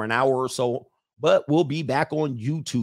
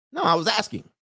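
laughing punchline; 9 semitones higher than usual. Retold or imitated.

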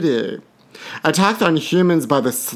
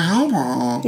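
mock crying plea. Catchphrase with mock cry.

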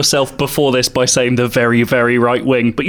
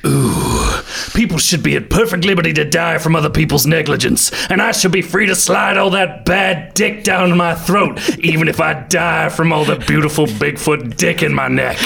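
Denver voice; 2 semitones higher than usual. Acted. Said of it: "be Denver".

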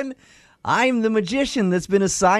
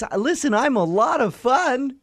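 magician voice; 3 semitones higher than usual. Acted. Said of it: "It's my magician voice".

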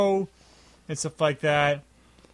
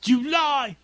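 mock villain cry; 9 semitones higher than usual. Movie voice acting along.

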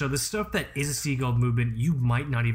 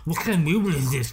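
watch nerd voice; 2 semitones higher, 4 dB louder, faster than usual. Retold or imitated. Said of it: "I love that voice".

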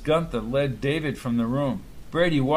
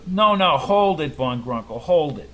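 mild outburst; 4 dB louder than usual. Acted. Brady cuts off the doctor.

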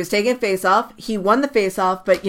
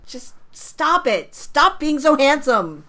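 swooning; 6 semitones higher, slower than usual. Real, not acted. Gushing over a player's looks.

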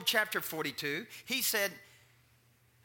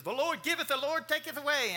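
mock funeral preacher; 6 semitones higher than usual. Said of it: "the preacher gets up and says".

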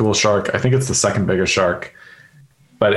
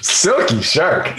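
slow, higher, smooth and savoring; smooth silky voice; 8 semitones higher, slower than usual. Pretend. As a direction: croon the name like a jazz ad. Savoring the proposed band name.

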